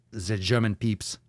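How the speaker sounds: slow touch of mock German; German accent. Host apologizing to Germans, lightly mock German accent. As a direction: lapse briefly into a German accent.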